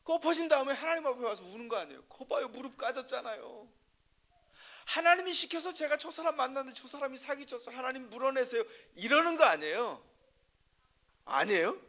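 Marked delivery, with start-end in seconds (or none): 2.1-8.6 lightly mocking whine, a bit higher; half-hammed petulant grumbling; whiny complaint. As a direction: mimic a sulky believer blaming God. Whining believer blaming God.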